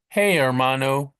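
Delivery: drawn-out American-accented "Hey, hermano". Shown as a demonstration. Teacher imitating Americans greeting a brother, American accent. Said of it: "we would say it like that".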